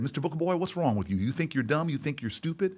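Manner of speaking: Southern teacher asking in disbelief; Southern accent. Retold or imitated. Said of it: "best I can do, uh, an accent".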